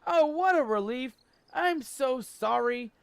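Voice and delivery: doting mother. Acted. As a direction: gush over him like a proud mum. Mother Talon apologises to son.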